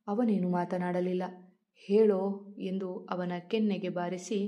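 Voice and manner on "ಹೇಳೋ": loud, sharp "tell me"; furious demand. A narrator's reading. Wife to silent husband, slapping him, loud furious demand. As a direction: bark the demand as you strike.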